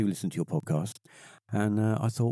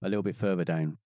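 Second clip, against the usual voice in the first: regional English accent. Shown as a demonstration. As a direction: stretch it out like a West Country local. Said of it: "people that talk like that".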